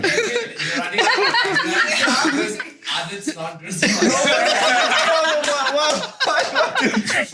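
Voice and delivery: bursting into helpless laughter; long high laughing fit. Real, not acted. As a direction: laugh until it peaks and falls off.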